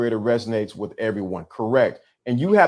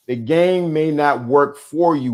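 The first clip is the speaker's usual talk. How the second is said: slow, deliberate restatement; emphatic repeat; slower than usual. Shown as a demonstration. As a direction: drive it home slowly. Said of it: "Let me say that again".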